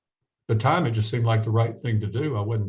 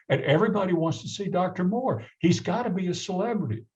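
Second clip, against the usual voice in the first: put-on East Tennessee accent; 6 semitones higher than usual. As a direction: lean in with a mild East Tennessee twang. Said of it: "who had that classic East Tennessee accent".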